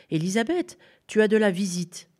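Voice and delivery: put-on boy telling Élisabeth she has a visitor, excited; excited call. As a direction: burst out with the news.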